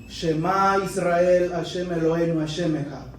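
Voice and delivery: solemn prayer. Retold or imitated. Rabbi recites the Shema prayer.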